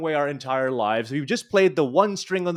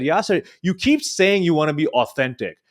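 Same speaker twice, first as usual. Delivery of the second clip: frustrated; 4 semitones higher than usual. Retold or imitated. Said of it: "my instructor got so frustrated with me".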